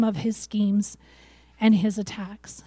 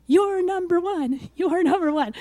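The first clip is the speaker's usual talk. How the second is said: a touch of a cheering fan with a foam finger; 5 semitones higher than usual. Retold or imitated. God at the game cheering with a foam finger, mild fan chant. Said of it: "God at the game with the foam finger".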